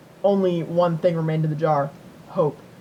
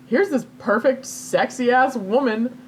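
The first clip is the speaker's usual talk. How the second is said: higher, slow, teasing sales pitch; mock tempting offer; 5 semitones higher, slower than usual. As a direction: dangle the prize like a sleazy salesman. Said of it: "he's like".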